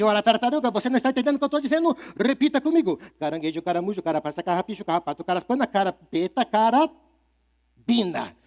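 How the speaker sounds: witch scolding the turtle; angry witch. Acted. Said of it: "A bruxa ficou muito brava e disse".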